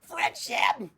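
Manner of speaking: hammed-up heroic shout of the word; Sora cosplay. Putting on his Sora cosplay, a mock heroic shout. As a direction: belt it like an anime hero. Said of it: "Me putting on my Sora cosplay".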